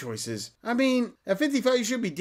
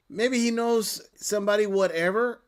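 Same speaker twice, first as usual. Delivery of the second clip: mocking quote; 2 semitones higher than usual. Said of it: "Did you just say".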